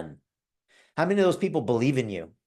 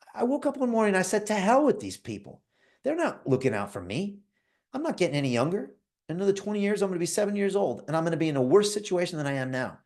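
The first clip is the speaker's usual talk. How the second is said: Christine fed up; 7 semitones higher than usual. Retold or imitated. Christine's retold angry decision.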